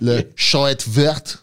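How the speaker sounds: slow French in a German-sounding accent. Real, not acted. Naming the green owl to a mate, German-sounding French. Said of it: "you said it like you were German".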